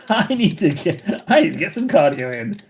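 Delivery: breathless, laughing as you go; real puffing between words; out of breath. Real, not acted. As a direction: laugh through being winded. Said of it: "I'm a little bit out of breath".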